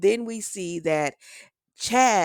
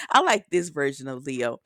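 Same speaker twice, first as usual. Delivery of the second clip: ordinary delivery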